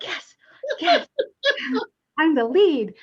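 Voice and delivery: giddy, laughing yes yes then a loud I'm the lead; bursting with pride and giggles; excited. Retold or imitated. Young medium thrilled to lead the investigation, giddy and loud.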